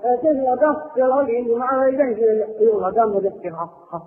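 social introduction ending in forced laughter; put-on courtesy chuckle; fake polite laugh. Shown as a demonstration. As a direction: greet a stranger, tack on an obliging laugh. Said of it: "用这个假笑".

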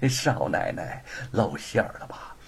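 slow, sneering triumph after a chuckle; smug gloating. Acted. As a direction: gloat at the exposed young mistress. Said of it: "万般得意地站起身儿". (得意洋洋地讥笑)

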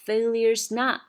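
"Failure's not" with "not" punched loud and high; stress on not. Shown as a demonstration. Teacher shows students the stress on "not", loud. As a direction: land hard on "not". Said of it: "重音在后面哈，not".

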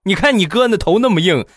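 mock motherly telling-off; imitated scolding mum. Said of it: "我妈在里边又大声地喊道".

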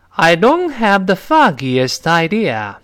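"don't" high and stressed, falling through "foggiest idea"; slow model line with weight on "don't"; emphatic model answer. Shown as a demonstration. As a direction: lean on "don't" and "foggiest", slowly. Reads girl's dialogue answer.

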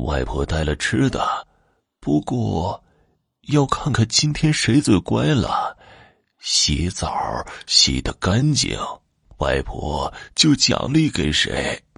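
put-on slow, slightly softened old grandmother voice; hint of a grandmother, measured and slow; lightly voiced grandmother. Grandmother promising treats to the children, lightly voiced grandmother.

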